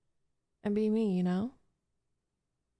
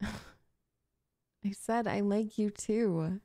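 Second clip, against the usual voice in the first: slow laughing repeat; much slower than usual. Acted.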